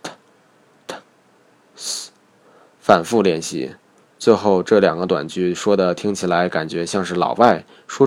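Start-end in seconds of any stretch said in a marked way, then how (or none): 0.0-2.1 "t、 t、 s" with the English tongue position, a soft airy "s". Shown as a demonstration. Teacher modelling the English sounds for the drill, English-style. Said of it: "以上讲解过的英文的".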